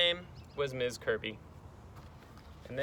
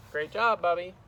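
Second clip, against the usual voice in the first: loud, higher, hearty praise; raised, encouraging teacher; praising teacher; 4 semitones higher, 5 dB louder than usual. Acted. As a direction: cheer on a pupil.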